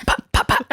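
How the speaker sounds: voiceless popping rifle shots; imitated gunshots. Co-host acting out sniping a bird off a branch, imitated gunshots. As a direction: pop out mock sniper shots. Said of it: "aim my sniper rifle".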